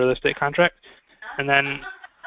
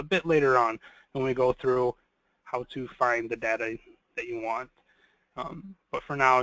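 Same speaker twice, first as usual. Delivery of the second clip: softer, measured instruction with pauses; deliberately slower; 4 dB quieter than usual. Real, not acted. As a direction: take it slowly for people writing notes. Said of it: "I will try to talk slower here".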